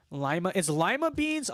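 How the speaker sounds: puzzled LYE-muh beans; corrected pronunciation. Real, not acted. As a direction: say "lima" with a long eye sound. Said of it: "I thought it was Lima".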